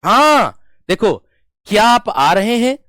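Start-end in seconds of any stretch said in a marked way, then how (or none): 1.6-2.8 "क्या आप आ रहे हैं" asked high and loud, rising; questioning intonation. Shown as a demonstration. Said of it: "आपसे प्रश्न पूछा".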